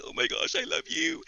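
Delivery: breathy oh my gosh, then a high I love you; gushing love. Retold or imitated. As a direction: swoon over the dog. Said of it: "I was just like".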